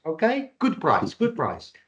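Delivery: fading Greek Cypriot sales patter; lightly kept Greek Cypriot haggling; Greek Cypriot accent. Retold or imitated. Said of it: "This is where I should really do my Greek Cypriot accent".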